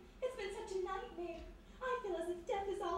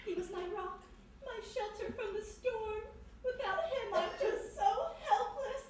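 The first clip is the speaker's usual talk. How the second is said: hammed-up weepy lament, voice rising and breaking; overdone sobbing; 4 semitones higher than usual. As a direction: lay the grief on thick, near tears. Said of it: "Laying it on a little thick".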